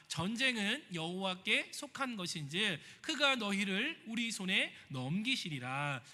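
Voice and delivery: 느리고 힘 있게 성경 봉독; 회중 앞에서 말씀을 또박또박 천천히 읽기; scripture reading. Acted. Reads scripture aloud. (천천히 장중하게 읽는 성경 봉독)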